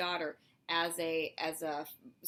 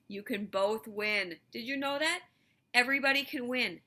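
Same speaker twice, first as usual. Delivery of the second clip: louder and higher, building up; teacher cheering that everybody wins; excited; 5 semitones higher, 7 dB louder than usual. Real, not acted. Building enthusiastic emphasis.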